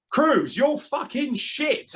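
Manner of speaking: high, slow yelled insult from the stands; shouting at a player. Retold or imitated. Fan yelling abuse at a player on the pitch, full-throated shout. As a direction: bellow it across the stadium. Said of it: "I just remember shouting".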